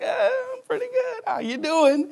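high, bright-eyed happy voice; cheerful reply. Retold or imitated. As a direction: play the carefree friend. Happy person answering a greeting.

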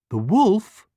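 high, loud startled hen; a hen in alarm. A narrator's reading. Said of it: "The hen was very alarmed".

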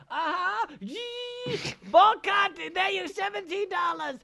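very high, loud mock Asian-accented barber. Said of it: "this Asian place".

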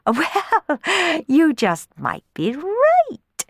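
high, slow, sing-song flattery; twittering. Acted. Sisters flattering their father, high twitter. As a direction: chirp it to please father. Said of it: "twittered Clorinda and Tisby".

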